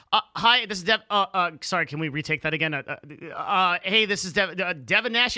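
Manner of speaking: stumbling, halting mock self-introduction; freezing up on camera. Guest re-enacts his botched on-camera intro, mock flustered freezing. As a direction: act out fumbling a take and restarting. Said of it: "I freeze the fuck up".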